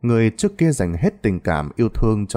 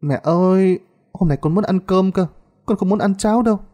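put-on whiny pleading child; 10 semitones higher than usual. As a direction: whine it like a pampered child. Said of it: "Lan nói với giọng nũng nịu".

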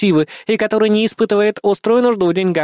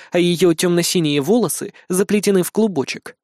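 ordinary delivery

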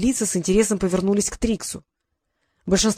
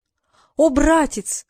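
falsetto exclamation; 6 semitones higher, much slower than usual. Acted. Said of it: "воскликнул Пёся".

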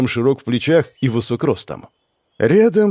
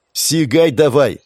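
urging; 3 semitones higher, 4 dB louder, slower than usual. Acted. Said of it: "поторопил он".

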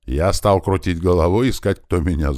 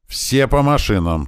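high, loud, drawn-out order; yelled command; 9 semitones higher, 5 dB louder than usual. A narrator's reading. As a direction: shout the order to the whole crowd. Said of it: "тут же заорал Туман". (громкая протяжная команда)

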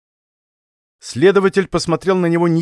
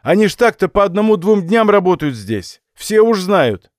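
put-on higher, louder old villager voice; old watchman voice; 5 semitones higher, 4 dB louder than usual. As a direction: play a simple old watchman.

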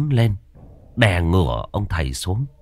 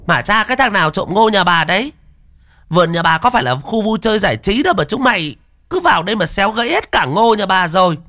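shrill, much higher, loud cursing matron; scolding village woman; 12 semitones higher, 4 dB louder, faster than usual. Acted. Farm woman curses thieves trampling her corn, high and loud. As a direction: rant at the corn thieves at full tilt. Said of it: "có tiếng chửi vang lên".

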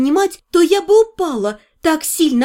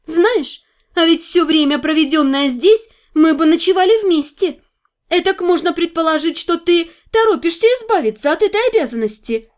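snide; 3 semitones higher than usual. Acted. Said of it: "ехидно добавила".

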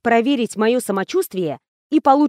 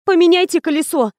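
higher, urgent plea; a desperate higher-pitched plea to the mechanic; pleading; 7 semitones higher, 3 dB louder than usual. A narrator's reading. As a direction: beg him to change the tyre, pitch up. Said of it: "взмолилась".

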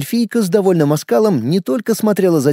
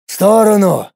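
higher, forceful command; demanding; 6 semitones higher, 3 dB louder than usual. A narrator's reading. Garlin pushing past the elf, demanding. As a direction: order her out of the way. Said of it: "потребовал Гарлин".

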